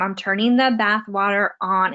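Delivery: put-on deliberate parent-to-toddler demonstration; modeled speech. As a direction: model each word clearly, stretching the end. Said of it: "giving him good speech to hear".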